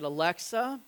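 put-on slow, tender question to a little girl; gentle dad question. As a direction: coax her gently, like a dad offering mercy. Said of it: "And, and I said".

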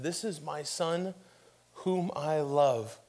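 slow, softened divine pronouncement; lightly voiced heavenly voice, unhurried. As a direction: let each phrase settle slowly and softly. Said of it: "a voice from heaven calls out".

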